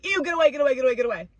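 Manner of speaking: mock disgusted yell; disgusted shooing. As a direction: shoo him off like something gross. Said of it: "and I said".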